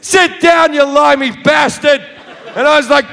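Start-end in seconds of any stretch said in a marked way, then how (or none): 0.0-2.0 high, shouted insult; an angry passenger heckling, pitched high and yelling; angry heckle. Retold or imitated. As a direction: bellow it at his head. Angry passenger throws peanuts.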